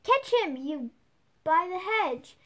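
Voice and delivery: high, loud barked order; rabbit shouting orders. A narrator's reading. The Rabbit ordering someone by the hedge, loud command. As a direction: yell the command across the garden. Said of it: "Then the rabbit's voice alone".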